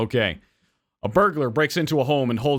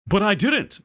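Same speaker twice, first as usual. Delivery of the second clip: higher, louder protesting shout; manager shouting; 9 semitones higher, 3 dB louder, slower than usual. Acted. Hotel manager shouts back at the old lady, outraged. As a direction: blurt it out in outrage. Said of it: "the manager shouted".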